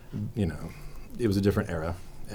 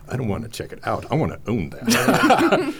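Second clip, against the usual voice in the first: voicing herself wanting to keep the book; mock greedy squeal; 5 semitones higher, 4 dB louder than usual. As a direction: gush over the book like a greedy child. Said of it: "And I'm like".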